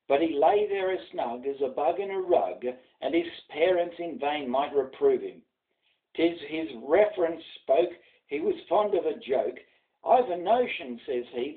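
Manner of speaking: rhythmic bush ballad read aloud; a grandfather reciting a ballad for his grandson; poem recitation. A narrator's reading. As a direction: recite with a lilting storyteller's swing.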